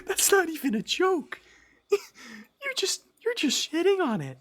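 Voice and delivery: very high, squeaky laughing protest; laughing through words. Real, not acted. Streamer cracking up at a chat insult, laughing.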